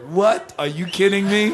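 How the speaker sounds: high-pitched incredulous retort; reliving his stunned disbelief, voice jumping up. Retold or imitated. Musician retelling his shock at the sequencer, incredulous.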